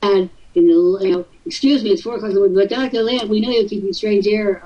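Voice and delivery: lightly mocking tattletale voice; hint of a tattling kid calling the boss; telltale child. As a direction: whine like a second-grade telltale. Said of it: "like little second grade telltales".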